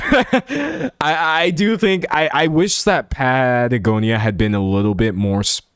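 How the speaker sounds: breathless, gasping for air; running out of air mid-sentence; out of breath. Real, not acted. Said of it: "I'm running out of breath here".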